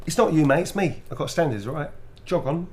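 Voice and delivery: cheeky London geezer voice; estuary english accent. Pretend. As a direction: brush someone off like a Londoner. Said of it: "You can do it in a London accent".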